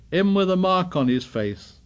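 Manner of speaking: breathless, short of air; gasping for breath. A narrator's reading. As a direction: gasp the words out. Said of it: "gasped Piggy".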